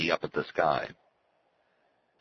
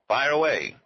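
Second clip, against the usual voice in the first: much higher and louder, eager; delighted; 9 semitones higher, 5 dB louder than usual. A narrator's reading. Arnie tells Helio to start explaining, delighted and eager. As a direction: jump at the chance, delighted.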